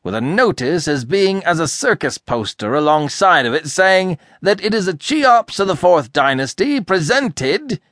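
high, loud, indignant harangue; furious tirade. A narrator's reading. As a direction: rant in a sudden burst of fury. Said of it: "burst of fury".

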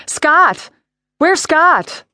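high frantic cry, pitch jumping up; scream. A narrator's reading. Assistant searching for her boss, frantic scream. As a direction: shriek the name in panic. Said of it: "the P A screamed".

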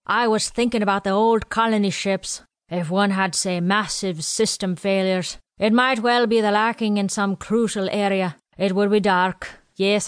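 lightly voiced old quartermaster; a hint of a chatty old supply man. Quartermaster Willie explains supplies to Janae and Ken, lightly voiced old man.

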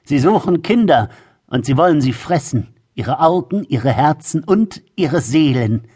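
crone voice relishing the horror; menacing old woman. Acted. Arms spread, frightening the children. (drohende alte Frau)

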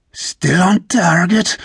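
high, drawn-out lookout's call; excited. A narrator's reading. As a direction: stretch out the excited report. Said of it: "Sarad said with excitement".

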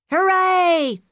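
high, loud cheer of joy; scream. Acted. Kid cheering at recess for snow, joyful scream. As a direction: throw it to the sky like a kid at recess. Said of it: "Jason screamed".

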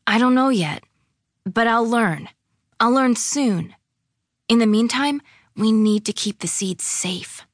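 put-on earnest, determined girl. Claire vows to learn about seeds, earnest and determined.

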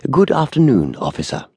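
high, clear greeting that drops away; clear speaking. A narrator's reading. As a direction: greet clearly so all can hear. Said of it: "and spoke clearly".

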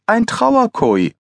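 very high, drawn-out teasing; gleeful repetition. A narrator's reading. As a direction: stretch it out in a high, playful voice. Pathologist gleefully repeats the odd word.

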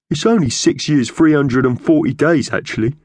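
high bird voice, easing down at the end; correcting magpie. Acted. Thug corrects him in bird voice.

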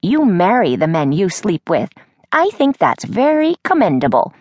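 lightly voiced chatty old lady; a hint of a gossipy grandmother.

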